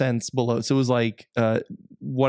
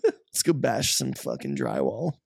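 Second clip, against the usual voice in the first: a hint of a rowdy bro; frat bro. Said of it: "bros with, you know, pre-runner trucks".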